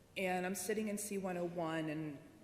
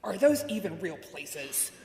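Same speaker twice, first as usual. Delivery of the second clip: slow, loud and disgusted; 7 dB louder, slower than usual. Retold or imitated. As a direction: scoff at a silly idea. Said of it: "in total disgust".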